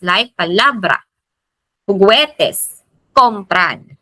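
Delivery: "palabra", "juguetes", "compran" each stressed on the next-to-last syllable; stress before last syllable. Shown as a demonstration. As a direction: lift LA in "palabra", GUE in "juguetes", COM in "compran". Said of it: "Nandun yung taas".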